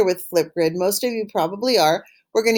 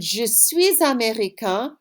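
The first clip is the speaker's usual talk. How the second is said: slow model answer; slower than usual. Shown as a demonstration. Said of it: "you should have answered".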